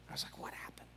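hushed stunned whisper. Retold or imitated. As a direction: breathe it out unvoiced, baffled. Stunned after gunman leaves.

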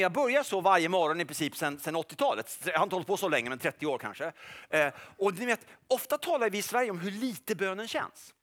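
ordinary talk, nothing marked

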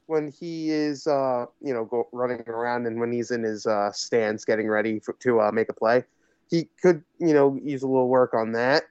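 winded, breathing between phrases. Real, not acted. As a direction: talk while catching your breath after exertion. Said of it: "I'm catching my breath here".

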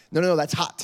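"hot" with a crisp final t; over-pronounced warning. Retold or imitated. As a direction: warn a toddler, over-enunciating "hot". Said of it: "I pronunciate stuff with Iris".

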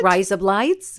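put-on Australian accent; mock Australian, vowels widened. Shown as a demonstration. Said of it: "that's your Australian accent".

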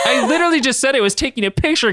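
high-pitched irritated retort; acted indignant comeback; snapping back. A narrator's reading. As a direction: snap back, exasperated. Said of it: "Katie snapped back".

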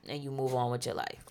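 breathy whispered advice. Pretend. Friend whispering calming advice to her pal. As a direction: hush it like a secret.

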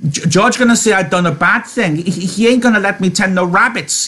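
high, stammering distress; frightened pleading. Acted. Lenny fearing he'll lose the rabbits, frightened and tearful. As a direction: wail it like a scared child. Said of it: "began to cry with fright".

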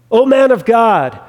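imitated official summons, firmly put; mock escalated command. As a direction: act out an officer pressing the order a notch harder. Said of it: "he ratchets it up a notch".

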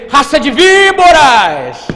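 high, very loud, slow denunciation; prophetic shout. Acted. Preacher imagining the prophet walking in here, shouting the rebuke. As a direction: bellow it, stretching "víboras". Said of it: "E foi com a entonação".

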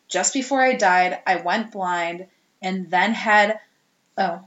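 a rough imitation of a possessed girl's Cockney; mock Cockney with a growing shout; Cockney accent. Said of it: "she said it in her, like, Cockney accent".

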